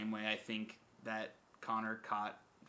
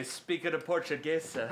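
loud, higher-pitched mock commentator voice; Mike Goldberg; 6 semitones higher, 5 dB louder than usual. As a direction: impersonate a commentator, loud and laughing. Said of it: "as Mike Goldberg would say".

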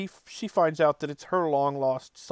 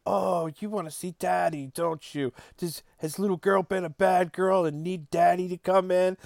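creepy daddy voice; 5 semitones higher than usual. Retold or imitated. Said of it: "making this really creepy voice going".

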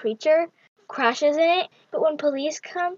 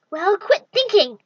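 irritated command; 6 semitones higher, 6 dB louder, slower than usual. Acted. Goddess snaps at thinking boy.

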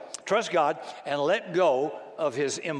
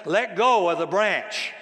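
voice of God; 3 semitones higher, 5 dB louder, slower than usual. Acted. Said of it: "The voice says".

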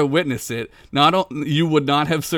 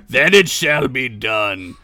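cold rasping evil emperor; 5 dB louder, slower than usual. Acted. Dark lord decree.

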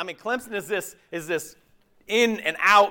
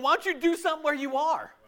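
gentle divine question; 10 semitones higher than usual. Retold or imitated. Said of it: "God's going".

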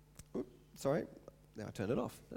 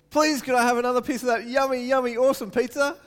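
put-on high, loud, gushing polite kid; sugary pleading child; polite sweet child; 8 semitones higher, 7 dB louder, faster than usual. Shown as a demonstration. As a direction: ask sweetly and gratefully. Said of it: "the difference in my face too".

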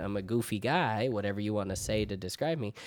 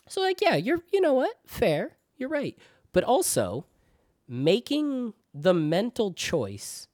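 raised voice; 12 semitones higher than usual. Retold or imitated. Arguing back at parents.

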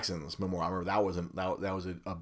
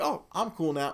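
higher, light mock baby voice; lightly voiced baby, pleased to be held; content baby; 9 semitones higher than usual. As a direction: play the suddenly happy baby. Baby's calm voice imagined.

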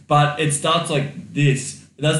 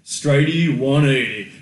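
Aussie phrase; 4 dB louder, slower than usual. Retold or imitated. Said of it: "a really Aussie kind of thing".

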